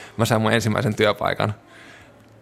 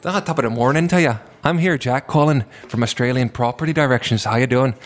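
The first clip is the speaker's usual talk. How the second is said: put-on Scottish accent; 3 semitones higher than usual. Agent jokingly phoning clients in a Scottish accent. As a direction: ham up a jolly Scottish greeting.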